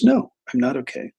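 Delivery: retelling an upset, pissed-off reply; mildly indignant retort, quoting someone upset. Retold or imitated. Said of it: "she was pissed at me".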